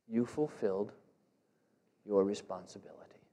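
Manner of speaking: hushed, breathy whisper. Acted. Pastor pressing the duty home to listeners, in a whisper. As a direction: let it drop to a whisper. Solemn point on the watchman's duty.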